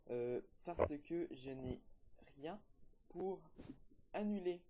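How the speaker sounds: son haché, mots coupés; coupure. Real, not acted. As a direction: comme une ligne qui saute. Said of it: "désolé pour, euh, la petite coupure". (coupure du son)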